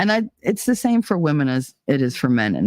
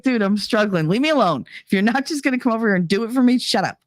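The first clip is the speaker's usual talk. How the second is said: higher-pitched, hurried telling-off; mock exasperation; 6 semitones higher, faster than usual. Speaking for a struggling little girl, mock exasperated. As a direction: voice a fed-up kid wanting to be left alone. Voicing the struggling girl's thoughts.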